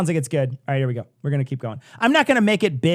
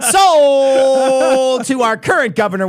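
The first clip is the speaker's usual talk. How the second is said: loud, higher auctioneer patter; 6 semitones higher, 5 dB louder than usual. Pretend. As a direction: call out bids like an auctioneer. Auctioneer parody of Blagojevich.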